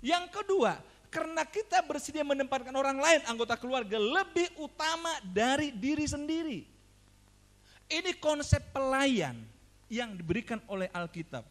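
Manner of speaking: emphatic pulpit teaching, stretching key phrases; forceful preaching. Real, not acted. Preacher teaches fathers to serve their households, emphatic preaching. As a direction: press the point home to the congregation.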